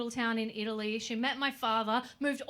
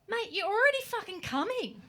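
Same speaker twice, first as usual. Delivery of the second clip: laughing punchline; 9 semitones higher than usual. Real, not acted. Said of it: "laughing punchline".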